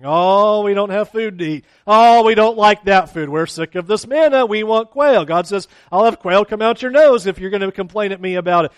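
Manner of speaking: loud, high, complaining mock whine; preacher mocking the complaining Israelites, loud whine; whining Israelites. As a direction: whine like a grumbling crowd in the desert. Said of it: "they are complaining about everything".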